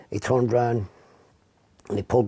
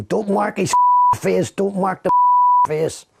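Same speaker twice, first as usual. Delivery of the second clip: higher, urgent mock yell; retold scream; 8 semitones higher, 5 dB louder, slower than usual. Officer shouting across the room during the beating, retold yell. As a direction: call out the warning sharply, higher pitch. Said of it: "somebody screaming".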